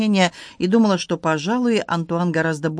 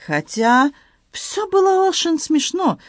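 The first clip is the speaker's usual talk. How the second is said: put-on high, slow French-accented broken Russian; excited Frenchman in broken Russian, high; Antoine voice; 10 semitones higher, slower than usual. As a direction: play the flustered Frenchman, pitched high. Antoine speaks.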